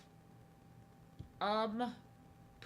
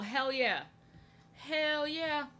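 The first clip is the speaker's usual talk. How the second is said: excited cheer; 7 semitones higher, 6 dB louder, much slower than usual. Real, not acted. Excited repeat to chat.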